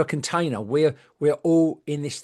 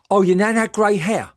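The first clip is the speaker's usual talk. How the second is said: lightly put-on sugary medium voice, a bit higher and louder; mock medium; 5 semitones higher, 5 dB louder than usual. Mocking a gushing psychic reading, mildly raised voice. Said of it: "And she said".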